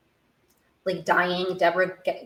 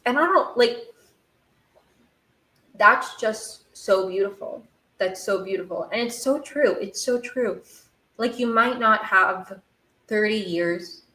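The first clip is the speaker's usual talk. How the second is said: moved, emotional; 3 semitones higher than usual. Real, not acted. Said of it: "getting emotional just thinking about it".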